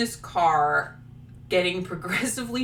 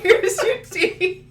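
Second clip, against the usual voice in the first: high, slow, trembling hostess voice; mock the quivering old woman serving tea; shaky old lady; 13 semitones higher, slower than usual. Old woman serving tea to travelers, high trembling voice.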